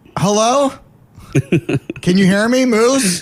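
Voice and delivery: mock yelling, very high and shrill. Recounting calling into a hospital intercom with no answer, retelling own yelling. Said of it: "I'm yelling at this at 4 a.m".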